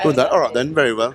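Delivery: put-on London "All right then"; London accent. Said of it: "doing the accent".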